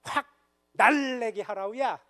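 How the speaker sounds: Pyongan dialect. Retold or imitated. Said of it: "평안도 분들은요".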